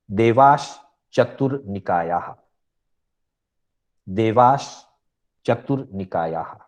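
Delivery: measured sutra recitation, word by word; सूत्र उच्चारण. Shown as a demonstration. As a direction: recite the sutra clearly for learners. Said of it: "छह सूत्रों का उच्चारण आपके सामने करूंगा". (सूत्र का स्पष्ट, ठहरकर उच्चारण)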